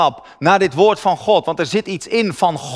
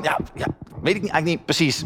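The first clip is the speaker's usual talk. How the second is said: much softer, fast and throwaway; sheepish mumble; 8 dB quieter, faster than usual. Retold or imitated. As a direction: shrug it off quickly. Sheepish admission retold. (veel zachter en snel, schaapachtig toegeven)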